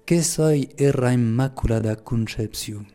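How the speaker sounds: measured delivery in Pyrenean patois; slow, even patois recitation; patois quotation. Retold or imitated. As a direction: recite it slowly in the local patois. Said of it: "je vais le dire en patois".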